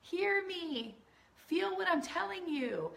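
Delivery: put-on a little girl begging to be loved; inner little girl. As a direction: plead like a small girl who wants to be heard. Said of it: "Your little girl all up in here is like".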